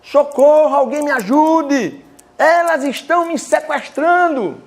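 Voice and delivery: high, loud, drawn-out mock cry of "Socorro"; panicked cry for help. Retelling an old woman in a wheelchair crying for help, imitated panic. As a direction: imitate an old woman calling for rescue, stretched slow. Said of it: "E a idosa gritava assim".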